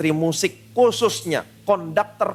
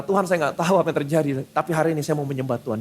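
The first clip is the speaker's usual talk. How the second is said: softened surrender; 4 semitones lower, faster than usual. Retold or imitated. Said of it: "hatinya melembut".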